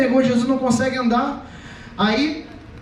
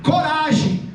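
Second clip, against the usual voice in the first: raised-pitch call of encouragement; mild rallying cry; retold shout; 4 semitones higher, slower than usual. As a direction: call out over the storm. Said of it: "ele gritou".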